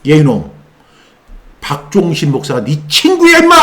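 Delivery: mild retold scolding; a touch of anger at the demon; angry rebuke. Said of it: "화가 나서 얘기를 했어요".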